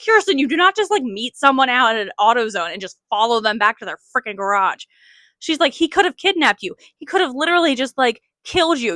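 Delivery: imitating angry mom. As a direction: play the furious mom lecturing her daughter, half-mocking. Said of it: "She was so mad".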